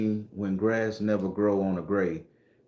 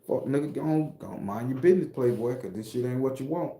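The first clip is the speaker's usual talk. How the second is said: tough hood talk; 4 dB quieter than usual. Shown as a demonstration. Showing tourists how to talk down a nosy local, in tough street talk. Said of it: "this is how you have to talk".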